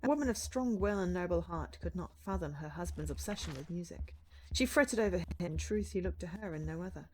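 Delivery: measured fable reading; storybook narration. Acted. Writer reading an ancient manuscript, storybook narration. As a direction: read it out like an old tale.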